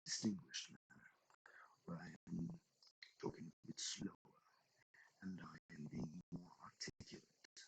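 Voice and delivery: slow it down and over-articulate lightly; distinguished pompous voice. Shown as a demonstration. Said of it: "I can talk in a more, distinguished manner".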